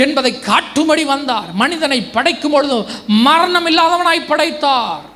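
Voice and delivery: emphatic, declamatory sermon delivery; preaching. Real, not acted. Preacher asking why hell fears Jesus, emphatic preaching. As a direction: proclaim it to a congregation.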